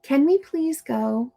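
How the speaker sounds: gentle request; nice polite ask. Shown as a demonstration. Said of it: "A nice friend".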